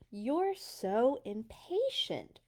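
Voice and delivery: slow sighing farmer; a touch of a weary sigh; lightly voiced farmer, sighing. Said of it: "sighed the farmer".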